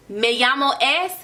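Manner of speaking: "Me llamo es" said as the learner's mistake, with a rising "es"; wrong version. Shown as a demonstration. Teacher showing students the mistake to avoid, rising questioningly. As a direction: demonstrate the common error "Me llamo es". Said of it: "No, don't say that".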